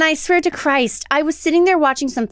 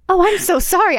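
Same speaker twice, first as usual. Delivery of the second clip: higher-pitched retold apology; imitated remorseful mother; 4 semitones higher than usual. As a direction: play a mom suddenly full of regret. Retold mother apologising after screaming.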